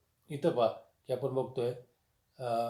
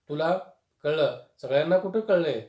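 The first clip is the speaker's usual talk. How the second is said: irritated husband; 3 semitones higher, 6 dB louder than usual. Retold or imitated. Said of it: "चिडून आपल्या पत्नीला म्हणाले".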